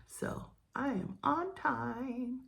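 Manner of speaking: soft whispered aside; whispering. Real, not acted. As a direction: whisper it to the camera. Whispered aside while doing makeup.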